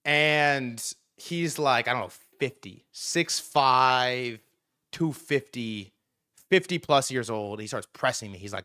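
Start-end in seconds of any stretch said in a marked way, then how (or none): none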